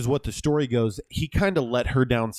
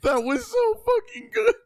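excited shout; 14 semitones higher than usual. Real, not acted. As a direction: yell it out, thrilled by the take. Director thrilled by the take.

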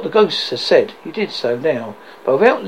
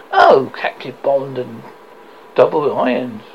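anguished cry; 3 semitones lower, 5 dB louder than usual. Acted. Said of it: "cried the phantom".

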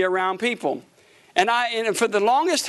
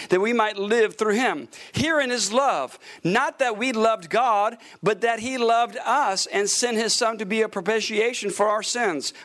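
measured, steady reading of scripture. Acted. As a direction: read the verses out like a preacher. Reads scripture aloud from pulpit.

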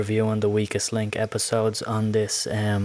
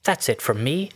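put-on sign-off voice; 6 semitones higher than usual. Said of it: "Russell Brand or the Child Catcher".

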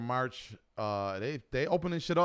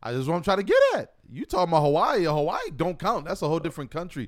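yelling across the room; 5 semitones higher, 6 dB louder than usual. Real, not acted. Heated argument about Hawaii.

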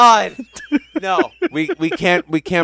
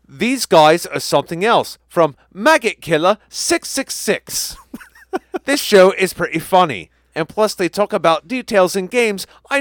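put-on Cockney accent. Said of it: "I think your accent's a little questionable".

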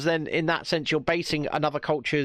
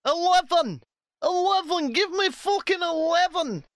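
furious yell; 12 semitones higher than usual. Acted. Man stuck in a voice lift screams in fury. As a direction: bellow the floor number in rage.

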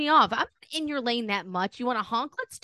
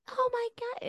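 much higher, hushed gasp of wonder; mock kid excitement; 4 dB quieter than usual. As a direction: gush like an amazed child. Kids seeing elves, imitated.

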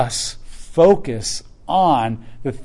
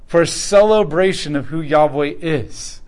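voice of God calling; 2 semitones higher, 4 dB louder than usual. Retold or imitated. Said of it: "God says".

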